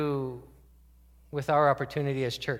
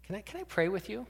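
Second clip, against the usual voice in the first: gentle offer to pray; 5 semitones higher, 5 dB quieter than usual. Retold or imitated. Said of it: "brave enough to say".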